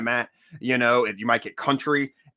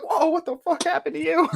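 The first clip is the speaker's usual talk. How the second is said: mock shock. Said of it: "I'm like".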